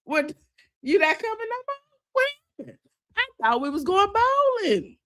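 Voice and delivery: high, sing-song fake innocence toward husband; mock confrontation. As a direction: play dumb, sweetly ambushing him.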